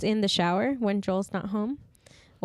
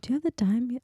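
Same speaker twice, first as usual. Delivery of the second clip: tentative, higher Irish accent attempt; 4 semitones higher than usual. Friend still attempting Irish, tentative Irish accent. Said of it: "how would you do an Irish one?".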